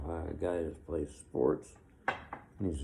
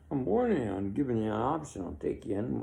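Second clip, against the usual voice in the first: raised, higher stern order; firm louder police warning; mock cop warning; 5 semitones higher, 3 dB louder than usual. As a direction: bark it like a cop closing in. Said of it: "And he says".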